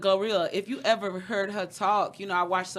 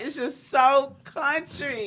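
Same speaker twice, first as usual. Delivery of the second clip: exaggerated country drawl; 6 semitones higher, slower than usual. Shown as a demonstration. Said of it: "the way I talk".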